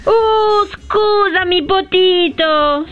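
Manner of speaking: high, drawn-out mock-sorry cooing; gushing apology. Woman apologises to waiting Potito, gushing. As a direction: stretch out an over-sweet apology.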